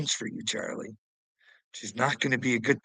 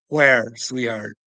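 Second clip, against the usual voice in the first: a loud laugh then a mocking "where"; laughing taunt; 7 dB louder, slower than usual. Real, not acted.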